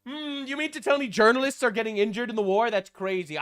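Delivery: feigned disbelief, starting on a high hum; sarcastic mock shock. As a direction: pretend to be amazed by obvious news. Feigns shock at injured journalists.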